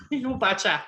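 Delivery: put-on laughing Minnesota accent; Upper Midwest accent. Host teasing Midwest listeners, Upper Midwest accent. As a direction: toss it off in a playful Wisconsin accent. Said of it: "what kind of accent I'm doing".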